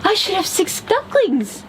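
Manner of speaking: puzzled and anxious; mama duck counting her chicks, worried. A narrator's reading.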